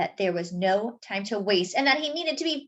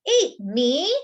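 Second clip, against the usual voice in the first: shrieked; 3 semitones higher, 5 dB louder than usual. Acted. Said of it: "Arnie shrieked".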